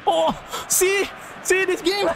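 very high-pitched protest; exasperated outcry. Real, not acted. Gamer blames the game for going wrong, exasperated. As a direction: squeal it in exasperation, breaking into laughter.

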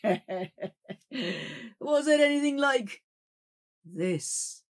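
very slow, menacing reveal; spring the ghost's trap; eerie cry. Acted. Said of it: "cried the sober man".

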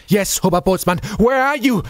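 high, loud desperate call; sharp, near sobbing. Acted. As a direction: call out sharply with a sob in your throat. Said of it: "Franz asked sharply, a sob lodged in his throat".

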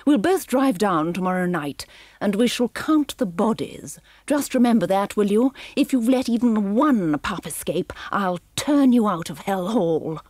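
lightly voiced menacing villainess; a hint of cold threat; haughty warning to her henchmen; villainess Cruella.

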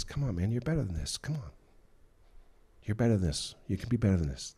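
gentle conviction. Shown as a demonstration. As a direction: encourage a friend who slipped up. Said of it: "Holy Spirit convicting sounds like this".

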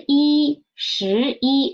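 一 held level after a rising 十; first-tone yi. Shown as a demonstration. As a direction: demonstrate 十一 with 一 unchanged in first tone. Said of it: "so it doesn't change".

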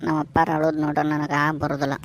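on the edge of tears, mildly; tearful. Acted. Son who can't bear his father crying, tearful. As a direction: choke up a touch. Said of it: "Shivu, ನೀನು ಅಳಕತ್ತೀಯ".

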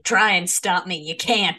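mild mock defiance; playful, emphatic dare; retold childish defiance. Player imitating their seven-year-old self, mildly defiant. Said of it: "I was just like".

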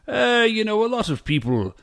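loose attempt at an older Englishman's British accent; vague British accent. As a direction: put on a rough British accent. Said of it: "sort of a vague British accent".

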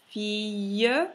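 "filles" said fee-y, no L sound; LL as a glide. Shown as a demonstration. Teacher shows the particular sound, ILL as "ee-y". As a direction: say "filles" loudly, ending in a Y glide. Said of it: "si pronuncia I".

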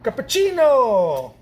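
long drawn-out, high cry falling away; excited Salt Bae. Retold or imitated. Painter mimicking a TikTok chef, excited drawn-out shout. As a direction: stretch it out in over-the-top excitement. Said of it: "he gets excited".

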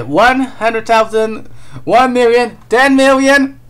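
drawn-out, mounting anticipation; building excitement. Real, not acted. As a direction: count up the zeros, pitch rising with each. Counting up a bounty in mounting excitement.

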